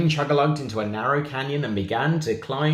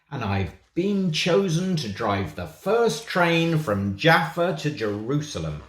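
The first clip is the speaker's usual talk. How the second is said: slow proud thought; 5 semitones higher than usual. Acted. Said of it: "thought Engineer Harry".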